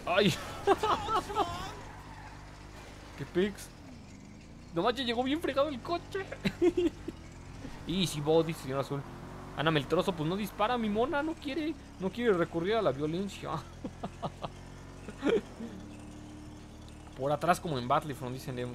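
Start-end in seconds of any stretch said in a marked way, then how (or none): 0.4-3.1 high, squealing burst of laughter; real laughing fit. Real, not acted. Car crash in game. 6.3-7.8 airy laugh. Real, not acted. Car arrives wrecked. 13.6-17.1 breathy laugh. Real, not acted. Joke about friend.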